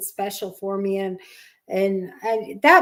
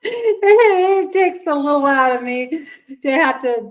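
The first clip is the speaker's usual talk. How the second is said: teary; 5 semitones higher, 6 dB louder than usual. Real, not acted. Tearful thanks for new shop.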